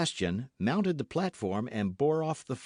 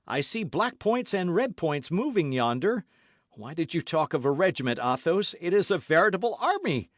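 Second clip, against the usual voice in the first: alarmed; 5 semitones higher, 3 dB louder than usual. Acted. Alarm at approaching enemy army.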